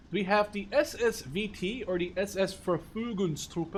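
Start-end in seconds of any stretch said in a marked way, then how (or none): 1.8-3.8 "Verfügungstruppe" said with a careful German accent; careful German pronunciation of "Verfügungstruppe"; attempted German pronunciation. Real, not acted. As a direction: try the German "Verfügungstruppe" as a German would. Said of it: "I hope I pronounced that correctly".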